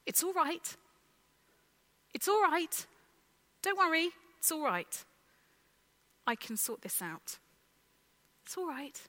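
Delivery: gentle, soothing it's-all-right; calm a frightened person kindly; reassuring like Jesus in the play; kind reassurance. Retold or imitated. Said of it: "in a kind tone of voice".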